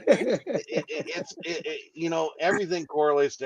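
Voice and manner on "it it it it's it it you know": laughing. Real, not acted. Laughing after a teasing question.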